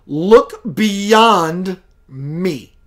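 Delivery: very slow, drawn-out otherworldly voice; channeled entity voice. Retold or imitated. Spirit guide telling Keith where to look, slow otherworldly voice. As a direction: stretch each word like a spirit guide speaking from far away.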